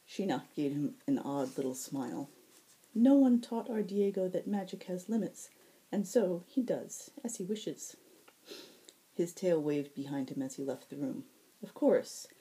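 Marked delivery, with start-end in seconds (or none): 2.9-8.0 lightly voiced fae herald. Shinnah voiced high.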